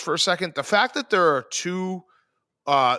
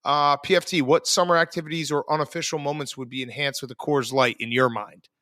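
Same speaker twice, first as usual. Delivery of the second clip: brisk, upbeat sponsor read, quick on the fine print; 3 semitones lower than usual. Acted. Host reading the Coors Light ad to listeners, upbeat ad read. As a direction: sell it like a radio spot.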